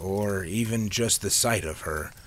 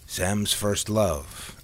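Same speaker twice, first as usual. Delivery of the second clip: grinning; much slower than usual. Acted. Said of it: "Al replied with a grin".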